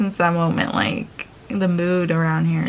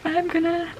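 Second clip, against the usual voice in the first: high, panicky voice that breaks off; mock panic from a driver with a crying puppy; panicked; 9 semitones higher, 4 dB quieter than usual. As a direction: sound like you're losing it at the wheel. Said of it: "I was freaking out".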